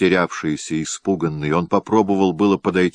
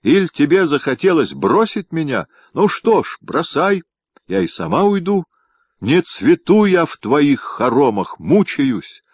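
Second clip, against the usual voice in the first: much higher and louder, spiteful rage; gloating fury; 10 semitones higher, 4 dB louder than usual. A narrator's reading. Wife accusing her husband of another woman, furious. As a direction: hurl it with malicious fury. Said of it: "с невиданной доселе яростью и злорадством".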